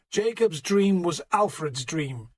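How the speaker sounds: slow, hoarse preaching voice; hoarse, worn-out preacher. Acted. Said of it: "Plegimund's voice was hoarse".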